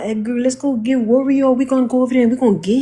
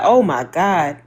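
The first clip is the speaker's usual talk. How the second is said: mock Hispanic accent; 6 semitones lower, slower than usual. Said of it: "That's exactly how they talk".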